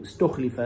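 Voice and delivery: استخلف as "ustukhlifa", u on the ta, i on the lam; Shu'ba's pronunciation. Shown as a demonstration. Teacher alerts students to Shu'ba's word, استخلف said "ustukhlifa". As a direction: point out استخلف said "stukhlifa". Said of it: "شوفوا، انتبهوا".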